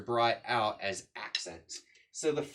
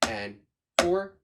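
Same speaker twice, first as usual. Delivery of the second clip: counting to the beat; 3 semitones lower, 4 dB louder than usual. Shown as a demonstration. Drum teacher starting with just accents, rhythmic count. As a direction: count each accent in time, lifting the final one.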